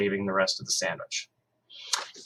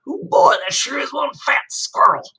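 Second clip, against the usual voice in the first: put-on slow, breathy little-kid whisper; awed whisper; 7 dB louder, slower than usual. A narrator's reading. Little brother staring at the fat squirrel, slow awed whisper. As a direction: hush it in wonder.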